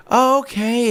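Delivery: surprised. Retold or imitated. Customer's surprised reply retold.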